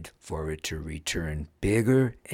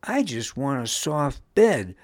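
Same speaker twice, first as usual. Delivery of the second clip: higher-pitched fussy complaint; fussing child; 6 semitones higher, 4 dB louder than usual. A narrator's reading. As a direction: fuss like a child wanting comfort. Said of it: "fussed Pun".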